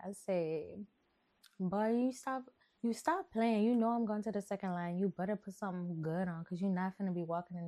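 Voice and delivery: put-on sassy New Orleans girl telling a story; chatty put-on New Orleans accent; Kitty. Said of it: "I'm gonna do Kitty for y'all".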